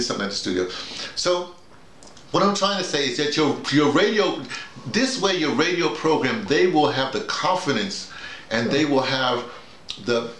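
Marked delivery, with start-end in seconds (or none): none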